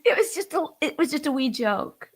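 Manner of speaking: laughing. Real, not acted. Laughing excuse.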